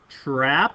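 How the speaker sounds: "trapezoid" broken after a punched TRAP, long pause before the rest; emphasized trapezoid. Shown as a demonstration. Teacher introducing the second vocabulary word, "trapezoid" heavily emphasized on TRAP. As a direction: hit TRAP hard in "trapezoid", hold, then finish. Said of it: "I really emphasize the word trapezoid".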